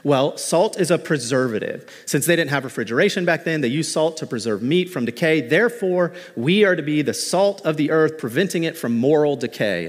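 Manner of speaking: a light mock of the standard sermon; lightly hammed-up preachy voice; typical sermon. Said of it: "goes something like this".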